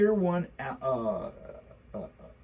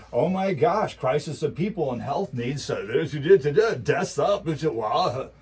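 mildly mocking panic; lightly mocking alarmed media voice; mock alarmed news; 5 dB louder than usual. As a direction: parody the newscasters' alarm. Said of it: "I just heard going into the weekend".

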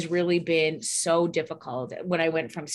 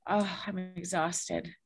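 mock weary complaint. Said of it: "he said".

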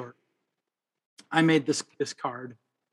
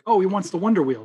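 higher, louder retold movie line; kid voice; 6 semitones higher, 7 dB louder than usual. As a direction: quote the excited kid. Kid's wish retold in movie.

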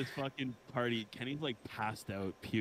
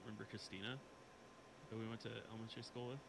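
softer, off-mic voice; far from the mic; 10 dB quieter than usual. Real, not acted. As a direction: speak away from the microphone. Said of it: "talk a little bit closer to your mic".

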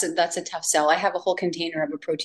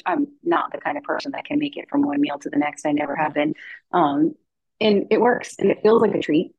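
underwater; 3 semitones lower than usual. Real, not acted. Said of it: "it sounds like you're slightly underwater".

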